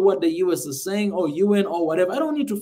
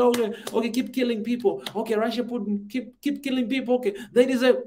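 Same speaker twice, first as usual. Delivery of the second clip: mock sarcastic; 3 semitones higher than usual. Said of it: "So you want me to say that".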